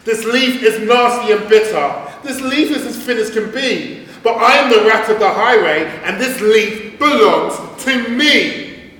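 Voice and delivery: high, loud boastful highwayman rat; greedy rat voice. Acted. The rat boasts over the stolen leaf, high and loud. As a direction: swagger like a robber rat claiming his prize.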